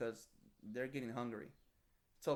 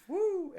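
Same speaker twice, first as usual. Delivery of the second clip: higher, louder "woo"; whoosh of speed; 10 dB louder than usual. Retold or imitated. Remembering a bike ride down the driveway, a loud woo. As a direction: let out a rushing woo.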